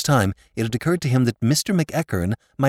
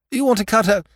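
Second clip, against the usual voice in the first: high, loud know-it-all lord; insufferably knowing silly lord; omniscient lordship; 12 semitones higher, 4 dB louder than usual. A narrator's reading. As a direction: lay down the law in a raised voice. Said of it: "insufferable air of omniscience".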